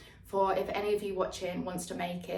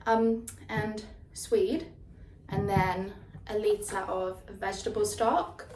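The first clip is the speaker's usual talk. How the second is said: drawn-out list; slower than usual. Real, not acted. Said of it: "why am I doing it like this?".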